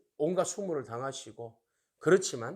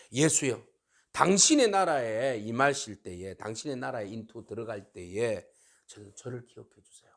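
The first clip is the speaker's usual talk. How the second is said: lower-pitched earnest appeal, softening at the end; heartfelt plea; 5 semitones lower than usual. Retold or imitated. Dying robber asks Jesus to remember him, sincerely. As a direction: sink into a sincere retold petition. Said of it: "진심을 다해서 예수님 이름을".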